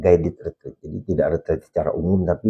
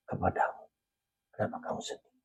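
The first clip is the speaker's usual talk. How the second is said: Kenapa kamu sedih breathed as a whisper; God whispering to the troubled priest; whispered divine voice; 12 dB quieter than usual. Retold or imitated. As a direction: whisper it like a voice heard in prayer. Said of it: "Dikatakan begini".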